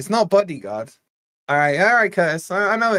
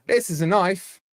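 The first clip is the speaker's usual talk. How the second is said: put-on Australian accent. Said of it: "given you a clue with the accent".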